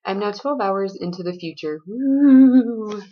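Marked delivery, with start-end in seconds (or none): 1.9-3.0 excited whoop. Real, not acted. Excited cheer about time travel.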